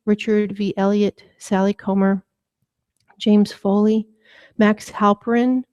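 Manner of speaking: measured, even reading of names; prayer list reading. Real, not acted. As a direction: read out each name evenly, pausing between them. Reads a prayer list aloud.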